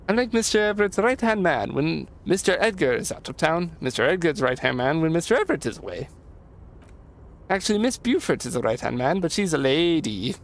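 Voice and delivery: a hint of an eager right-hand man; lightly lilting, folksy helper; lightly voiced Leo. Voices Leo in game dialogue.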